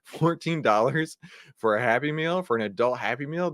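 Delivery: high, loud, stunned at the price; a retold gasp of disbelief at the bill; shocked disbelief. Son hearing his dad name the price, high and loud in shock. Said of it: "I was like".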